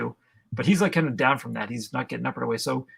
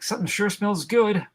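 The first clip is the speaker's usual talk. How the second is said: high-pitched comic realization; high cartoon voice; 10 semitones higher, slower than usual. Voicing the man realizing he is burning, high cartoon voice. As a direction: climb high into a drawn-out, silly wail. Acting villain realizing he burns.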